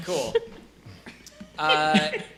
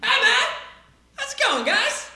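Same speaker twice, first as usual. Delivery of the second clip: much higher, chirpy stoner dude greeting; friendly peasant; 4 dB louder than usual. Acted. Cart peasant greets the party, high and chummy. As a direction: greet them like a dopey buddy. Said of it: "And he's like".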